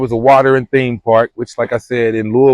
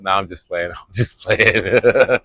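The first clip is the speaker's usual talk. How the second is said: laughing; 4 semitones lower, slower than usual. Real, not acted. Laughing off joke offer.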